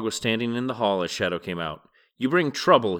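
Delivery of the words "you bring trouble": loud angry outburst; shouting. Acted. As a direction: bark it at the guest in anger. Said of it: "he was shouting".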